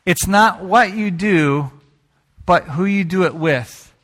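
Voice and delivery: slow it down and lean on what; slow, deliberate restatement. Shown as a demonstration. Pastor repeating the saying to his church, slow and deliberate. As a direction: spell the saying out slowly word by word. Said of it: "This was illustrated to me".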